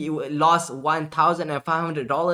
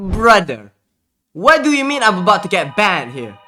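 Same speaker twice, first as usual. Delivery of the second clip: louder, pitched-up alarmed question; alarmed protest; 6 dB louder than usual. Retold or imitated. Streamer told he faces a ban, loud alarmed protest. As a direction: sound alarmed at the threat.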